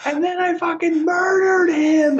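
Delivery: high, slow, loud mock yell; slow high shouted mock confession. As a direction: belt the punchline like a gleeful maniac. Imitating friend's punchline.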